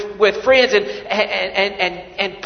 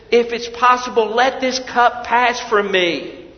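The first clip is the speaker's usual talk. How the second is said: pleading prayer; 5 semitones higher, 4 dB louder than usual. Acted. Jesus praying in the garden.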